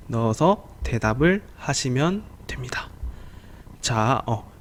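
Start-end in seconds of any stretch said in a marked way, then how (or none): 0.1-2.9 whispered aside. Real, not acted. Teacher aside while explaining.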